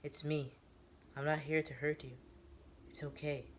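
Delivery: soft, gentle plea; pleading. Acted. Newbie begs Teo to put the gun down, softly. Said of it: "he pleads".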